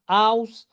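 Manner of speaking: "हाउस" with the a-u glide; pronunciation demo. Shown as a demonstration. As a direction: model "हाउस" clearly. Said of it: "तो ए ओ पढ़ रहे हो". ("हाउस" को आ-उ glide से)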